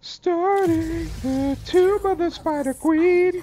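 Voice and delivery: slow, high, booming announcer. Shown as a demonstration. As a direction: announce it like a big trailer. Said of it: "much better than the other one I said".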